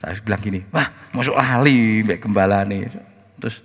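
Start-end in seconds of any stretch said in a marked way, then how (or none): 0.7-3.1 seruan heran yang keras dan diulur; heran menegur. Retold or imitated. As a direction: tegur pelan-pelan dengan nada tak percaya. Pendeta menyapa jemaat yang lupa. (heran, setengah menegur)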